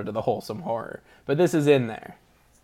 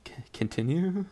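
breathy whispered nudge to go on; 3 semitones higher, 8 dB quieter than usual. Real, not acted. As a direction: whisper it softly, no voice. Whispering so as not to interrupt.

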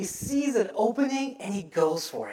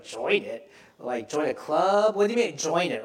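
puzzled, lower-pitched query; puzzled questioning; 4 semitones lower than usual. Retold or imitated. Preacher recalling his reaction to the phrase, puzzled. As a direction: question it as if baffled. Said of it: "'cause I was like".

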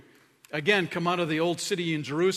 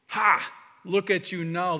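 mocking jeer; 4 semitones higher, 5 dB louder than usual. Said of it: "they yelled at him".

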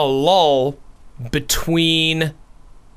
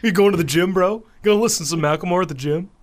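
mocking gym bro; much faster than usual.

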